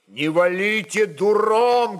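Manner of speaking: slow, loud battle command; shouting. Acted. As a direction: bark the order over the fighting. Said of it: "кричал Степан Матвею". (громкий, медленный крик в бою)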